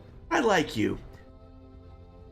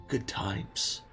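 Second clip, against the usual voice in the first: wistful sigh; 4 semitones lower, 9 dB quieter than usual. Acted. Old barkeep reminiscing.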